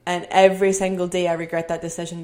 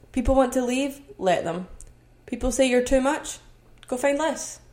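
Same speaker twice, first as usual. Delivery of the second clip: "go find less" flicked off high and offhand; sassy dismissal; 4 semitones higher than usual. Real, not acted. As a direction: brush them off with attitude. Defiant message to critics.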